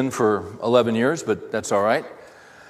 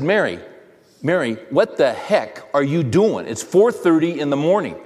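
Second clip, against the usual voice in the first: irritated; 3 semitones higher, 3 dB louder than usual. Retold or imitated. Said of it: "I'm getting irritated".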